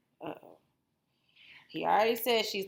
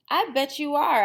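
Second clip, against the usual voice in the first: louder, knowing wolfish tone; sly agreement; 7 semitones higher, 7 dB louder than usual. Acted. Wolf humouring boastful Little Red again, sly. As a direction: humour her with a wink.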